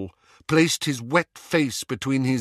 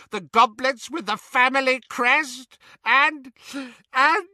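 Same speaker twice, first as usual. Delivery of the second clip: higher and higher, climbing in panic; distraught elf rising to panic; panicking elf; 10 semitones higher, 4 dB louder than usual. Acted. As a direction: run out of breath listing. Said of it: "Creature was gulping for air".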